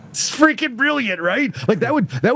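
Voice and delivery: high, laughing delivery; amused delight. Real, not acted. Cracking up at retold scene.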